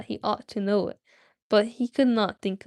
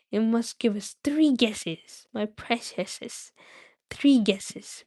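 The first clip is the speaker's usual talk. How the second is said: Gollum voice; much slower than usual. Acted. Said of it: "my Gollum voice".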